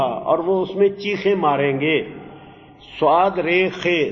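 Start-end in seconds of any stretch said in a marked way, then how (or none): 3.0-4.1 صاد رے خے named letter by letter, very slowly; letters spelled out. Shown as a demonstration. Teacher spelling the root for students, slow letter by letter. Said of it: "صرخ یصرخ میں نے ہوتا ہے".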